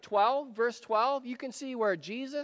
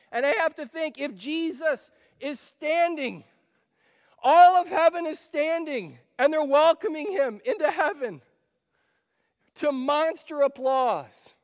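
rising, louder preacher's build to a climax; preaching at full force; 6 semitones higher, 6 dB louder than usual. Acted. Pastor to congregation, building excited preaching. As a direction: preach it up as heaven cheers.

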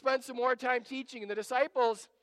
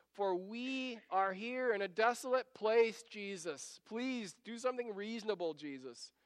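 mildly acted exasperation; exasperated. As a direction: plead for some sense, wearily. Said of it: "I can hear them being exasperated with Jesus".

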